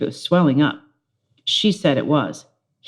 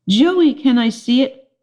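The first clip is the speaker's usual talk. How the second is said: put-on girly pleading; 7 semitones higher than usual. Judy pestering Joey.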